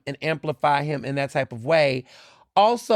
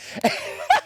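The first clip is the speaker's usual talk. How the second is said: high-pitched burst of laughter; real laughter. Real, not acted. Cracking up while retelling a comeback to a bully, real laughter. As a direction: crack up at your own joke.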